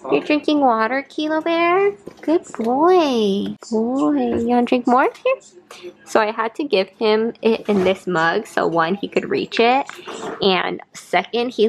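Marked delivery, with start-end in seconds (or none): 0.1-5.9 higher sing-song voice for the dog; pet talk. Real, not acted. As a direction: coo at the dog, pitched up. Talking to her dog.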